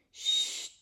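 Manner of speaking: unvoiced hush; shushing. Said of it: "répéta Hagrid". (Hagrid répète « Chut ! » en chuchotant)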